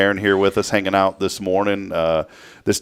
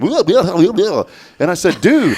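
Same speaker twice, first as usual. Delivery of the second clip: laughing; 11 semitones higher, 6 dB louder, much slower than usual. Retold or imitated. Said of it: "Do that again".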